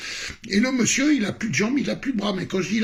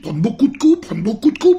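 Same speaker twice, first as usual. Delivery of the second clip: martelé; 5 semitones higher, 7 dB louder than usual. Real, not acted. Insiste sur les coups encaissés.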